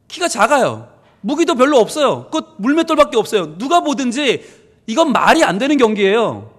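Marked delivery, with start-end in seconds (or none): none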